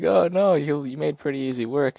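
very high, loud gushing; mock fawning; flattering crowd. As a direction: gush at the champion.

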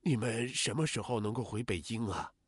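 soft, subdued voice of a parent; hushed, concerned parental question; parent asking. Acted. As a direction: ask quietly, as a parent waiting for their child. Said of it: "父母问".

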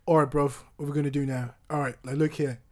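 amateur British street accent; rough attempt at British. Shown as a demonstration. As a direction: talk like a British lad laying it out. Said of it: "British, British accent".

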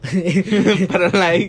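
words through laughter; laughing. Real, not acted. Cracking up with the host, talking through laughter. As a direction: laugh while starting to talk.

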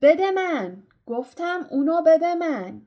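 loud, high, forceful demand; shouting. A narrator's reading. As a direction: shout the order, pushing harder on the repeat. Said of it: "هری فریاد زد".

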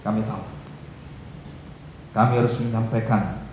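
earnest congregational prayer. Acted. Pastor praying for the congregation, earnest prayer voice. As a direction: pray for the church, steady and earnest.

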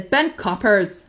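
a slow, badly faked Northern Irish accent; a hammed-up Northern Irish catchphrase, slowed down; terrible Northern Irish accent. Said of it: "that was a really terrible Northern Irish accent".

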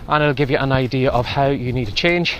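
breathless, walking into strong wind; talking while short of breath. Real, not acted. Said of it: "pardon me, I'm out of breath".

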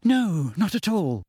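high, slow strained reply; small high-pitched voice; Hermione squeaking. Acted. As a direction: squeak out a polite answer. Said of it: "squeaked Hermione".

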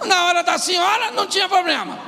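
high-pitched, forceful preaching shout; emphatic shouted correction. Real, not acted. Preacher corrects the audience's verdict on the husband, emphatic shout. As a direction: cry it out to correct them.

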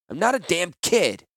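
indignant high retort; spat back. Acted. Tala retorts indignantly to Gerard, with a wink. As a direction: snap it back, half joking. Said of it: "Tala spat back".

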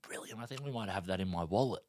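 a soft, muttered sarcastic "brilliant"; sarcastic inner voice. Retold or imitated. A soft dry sarcastic thought about the size of the fine. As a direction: think it dryly to yourself. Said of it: "in my head".

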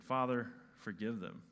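acted hushed forgiveness; gentle prayer. Acts Jesus' gentle prayer, in contrast.

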